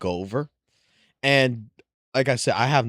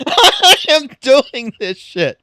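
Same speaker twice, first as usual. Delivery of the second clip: high, slow, laughing through words; cracking up while telling it; 12 semitones higher, 8 dB louder, slower than usual. Real, not acted.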